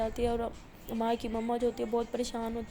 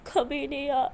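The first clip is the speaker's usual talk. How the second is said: higher, louder tearful protest; crying lament; 3 semitones higher, 4 dB louder than usual. Acted. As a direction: speak through tears, refusing to sleep. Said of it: "تو ایسے بول کے رو رہی ہوتی ہے". (روتے ہوئے شکوہ)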